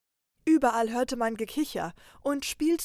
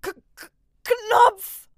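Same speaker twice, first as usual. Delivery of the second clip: very high, loud, slow stammered cry; trapped trainer straining to shout the word button; struggling gasp; 13 semitones higher, 12 dB louder, slower than usual. Acted. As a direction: force the word out while being dragged under. Trapped trainer gasps out clue.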